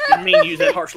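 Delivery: words squeezed out through loud laughter; laughing. Real, not acted. Co-host cracking up at the rant, laughing. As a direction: laugh hard and high through it.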